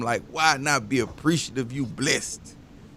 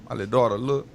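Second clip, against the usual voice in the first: ordinary talk, nothing marked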